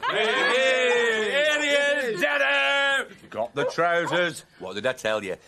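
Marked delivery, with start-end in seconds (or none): 0.1-3.1 excited call. Acted. Child greets dad arriving.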